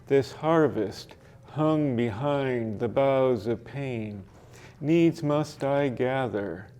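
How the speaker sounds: slow, measured reading of a sonnet; poem recitation. Shown as a demonstration. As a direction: let each line hang like a poem. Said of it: "recited it mostly from memory".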